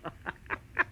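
soft, airy laugh in the face of the accusation; breathy mocking chuckle. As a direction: chuckle off the suggestion.

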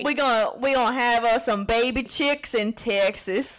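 playful put-on Texas twang; imitation Southern US speech; Southern accent. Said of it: "do a better Southern accent than us".

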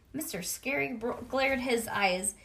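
usual speaking voice

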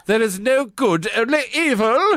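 laughing imitation. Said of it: "mocking the rival Voldemort".

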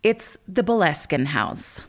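talking while lying face down on the floor; lying on stomach. Real, not acted. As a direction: speak lying on your stomach, chest pressed down. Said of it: "I'm laying on the floor on my stomach".

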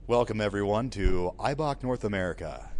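bright, loud tour guide welcome; peppy orientation leader. Acted. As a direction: greet the group like a theme park guide. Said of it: "You gotta sound like a Disney tour".

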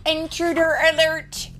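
high, loud robotic warning repeated; alarm computer voice. A narrator's reading. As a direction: blare it again like an alarm. Alarm voice in story.

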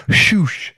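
airy shoosh of flicked hair; imitated whoosh. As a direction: mimic hair swishing like a sound effect. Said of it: "It goes like".

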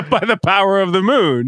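put-on high, loud magical girl catchphrase; bright magical girl. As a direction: belt it like a Sailor Moon transformation. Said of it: "it's some Sailor Moon shit".

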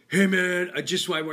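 lightly voiced beggar hailing someone; imitated beggar. Voices beggar riding up on bike.

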